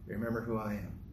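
mild, understated gentle nudge; gentle reminder. Acted. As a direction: remind them kindly, without pressing. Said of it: "It's a gentle reminder to".

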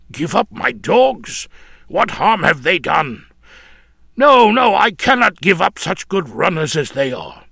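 high, loud cry of no; a man crying out against giving up his dogs; refusing outburst. Acted. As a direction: protest with rising alarm. Nif refusing to part with dogs.

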